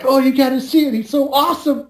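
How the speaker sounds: high, gushing imitation of swooning women; mock fangirl gush; gushing girls. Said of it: "they're all like".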